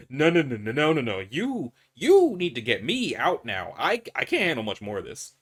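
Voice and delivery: nervous laugh into loud, desperate nos; begging to be pulled out, close to breaking; panicking. Acted. Trapped man pleads with the doctor to get him out, loud panic.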